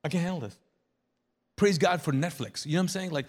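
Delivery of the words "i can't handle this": overwhelmed. Acted. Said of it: "been in that moment like".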